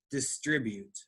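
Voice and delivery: distribute repeated softly, middle syllable stressed; soft model repeat; stress on dis-TRI-bute. Shown as a demonstration. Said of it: "The emphasis is distribute".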